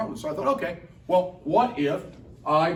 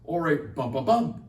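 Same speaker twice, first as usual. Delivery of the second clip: "a bump, a bump" as da-da-DUM, each "bump" stressed; anapest rhythm. Shown as a demonstration. Teacher shows students the anapest, with two light beats then a stressed one. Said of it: "which is the anapest".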